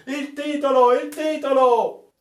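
high, loud, slowed chant of the crew; thundering voices. Acted. The eager crew thunders at the sailor to give the title. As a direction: thunder the demand together. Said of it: "tuonò le voci".

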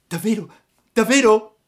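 very high, loud happy puppet shout; overjoyed cry. A narrator's reading. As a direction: exclaim it jumping for joy. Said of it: "gridò il burattino saltando dell'allegrezza". (grido acuto di allegrezza)

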